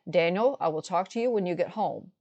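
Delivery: calm. Retold or imitated. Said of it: "I said very calmly".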